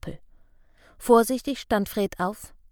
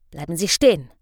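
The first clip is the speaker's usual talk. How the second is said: a louder, low hissed command; hissed warning; 3 semitones lower, 4 dB louder, faster than usual. Acted. Injured policeman hisses at Fred to stay put. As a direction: hiss the order to stop. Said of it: "fauchte der Mann am Baum".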